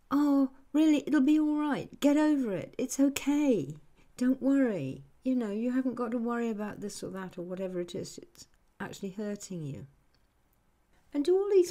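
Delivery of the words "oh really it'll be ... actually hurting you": dismissive reassurance. Retold or imitated. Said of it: "they're saying".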